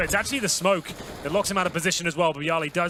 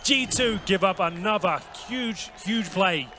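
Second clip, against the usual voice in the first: excited shout; 7 semitones higher, 4 dB louder than usual. Real, not acted. Co-caster hypes the retake.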